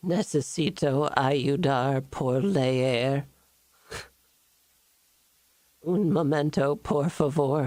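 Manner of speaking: slow halting voice; slow, unsure Doris voice. Acted. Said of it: "Doris voice".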